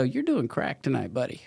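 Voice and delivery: a hint of a tempting devil coaxing. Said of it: "the devil would come in and go".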